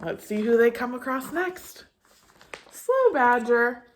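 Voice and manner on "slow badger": slow, drawn out slow badger. Shown as a demonstration. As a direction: stretch it out slowly. Words read to match meaning.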